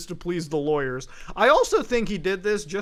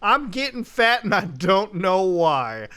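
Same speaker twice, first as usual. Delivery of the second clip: mocking repeat; 4 dB louder, slower than usual. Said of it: "clarify Nico Cotto's question".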